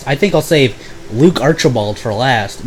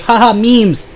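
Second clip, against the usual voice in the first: much higher goofy mock voice; mocking Vander; 10 semitones higher, slower than usual. Imitating his roommate's stale meme jokes, high and goofy. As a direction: parody a cringey meme guy.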